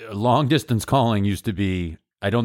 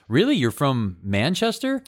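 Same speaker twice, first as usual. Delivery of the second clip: skeptical English listener; 4 semitones higher than usual. Retold or imitated. Imagined suspicious English listener.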